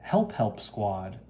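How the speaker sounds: slow, lightly theatrical presentation; grand fashion friend. Acted. Fashion friend introduces her associates, mildly grand and slow.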